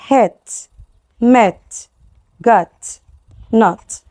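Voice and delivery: hit, met, got, not with short vowels closed off by the t. Shown as a demonstration. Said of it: "تبقى short". (حروف علة قصيرة مقفولة بـ t في hit, met, got, not)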